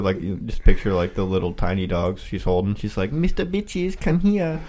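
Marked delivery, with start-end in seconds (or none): 3.1-4.6 put-on high Asian-accented call. Friends imagining the wife calling him, high accented call. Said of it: "Throw that Asian accent on there".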